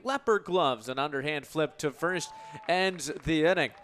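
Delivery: usual speaking voice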